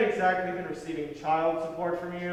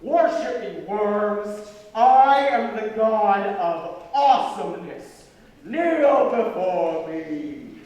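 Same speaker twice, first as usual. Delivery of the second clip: dark lord; 3 semitones higher, 5 dB louder, slower than usual. Acted. Boy acts as arrogant god.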